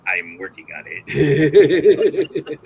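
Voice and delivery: loud, slow put-on voice with a laugh; Hagrid. Improviser defending his limited impression, slow laughing character voice. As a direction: drag it out in character. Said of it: "Hagrid says more".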